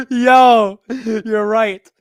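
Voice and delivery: loud, high, cracking up; laughing amazement. Real, not acted. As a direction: exclaim loudly through real laughter.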